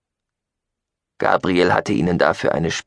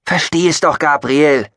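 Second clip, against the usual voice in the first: raised, loud plea; desperate call; 7 semitones higher, 6 dB louder than usual. Acted. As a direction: beg him to understand. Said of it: "rief er verzweifelt". (verzweifelt gerufen)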